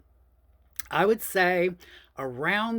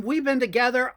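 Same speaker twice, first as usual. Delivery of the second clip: higher, louder angry shout; retold scream; 7 semitones higher, 4 dB louder than usual. To husband in the courtyard, screaming angrily. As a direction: scream it at him, furious. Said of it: "I screamed at him".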